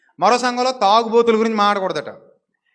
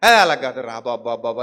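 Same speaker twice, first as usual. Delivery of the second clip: coaxing plea; 10 semitones lower than usual. Retold or imitated. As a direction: imitate a sweet coaxing appeal. Coaxing the sulking man.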